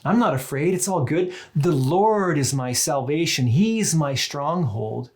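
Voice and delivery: brightly confident, almost breezy declaration; triumphant. Shown as a demonstration. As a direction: proclaim it as if nothing could touch you. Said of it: "one perspective has more of a triumphalistic tone".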